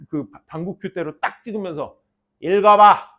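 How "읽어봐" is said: short, louder retold command; mock stern order. Old teacher tells pupil to read, mock stern order. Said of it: "딱 그러는 거야".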